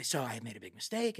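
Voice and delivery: very low, soft admission; sheepish confession. Retold or imitated. Director confesses to Spielberg next morning, quietly sheepish. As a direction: drop pitch and volume, owning up.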